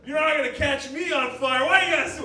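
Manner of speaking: high, loud, indignant yelling; panicked shouting. Acted. Man covered in gasoline berates people with flames, panicked shout. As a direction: yell like you could catch fire any second.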